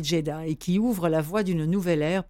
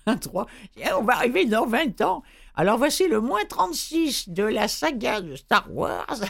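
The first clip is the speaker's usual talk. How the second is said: amused, laughing through the words; giggling at his own joke; 6 semitones higher than usual. Real, not acted. Joking about prequel numbering. (en riant)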